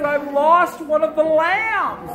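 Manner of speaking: lightly acted upset little boy, slow and high; crying boy. A narrator's reading. Shepherd boy telling the stranger about his loss, mock-tearful. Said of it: "and he was crying".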